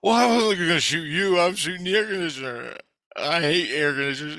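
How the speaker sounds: acted indignant retort; heated protest. Shouting back in acted quarrel.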